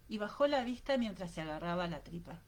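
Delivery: plain reading voice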